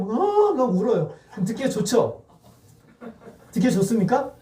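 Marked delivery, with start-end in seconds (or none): 0.2-0.5 high, drawn-out pretend wail; play-acted cry on a held high note; mock wailing. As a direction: imitate a grown-up suddenly bawling. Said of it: "강현중 집사님 막 울어요".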